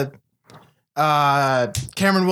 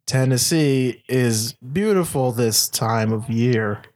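slow, much lower mock Southern accent; 8 semitones lower, slower than usual. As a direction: drawl it out low and slow like a fake Southern boy. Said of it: "if you just talk slower, that means that you sound more Southern".

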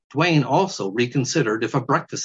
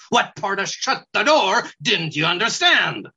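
higher, scornful weasel voice; 6 semitones higher than usual. Acted. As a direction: scold like a rude little weasel. Weasel scolding.

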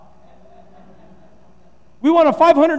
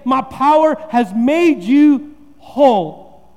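slow pompous declaration; mock preacher; 3 semitones higher, 5 dB louder, much slower than usual. Shown as a demonstration. P=B. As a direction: pastor mocks a grandstanding Jesus, slow and grand. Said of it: "Jesus doesn't say".

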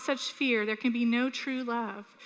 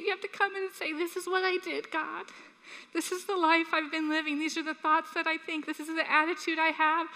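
higher-pitched, heartfelt plea to come in; urgent but restrained appeal, pitched up; earnest pleading; 3 semitones higher than usual. Real, not acted. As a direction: plead earnestly, softening into a confession. Preacher pleads, then voices a confession.

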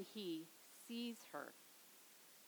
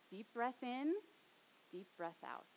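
soothing breath cue; 3 dB quieter than usual. Shown as a demonstration. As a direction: lead a child to breathe. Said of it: "I breathed deeply".

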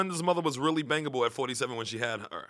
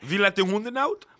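put-on singing it in a Dutch accent; 4 semitones higher than usual. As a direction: sing the line in Dutch-accented English. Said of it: "is that a Dutch accent?".

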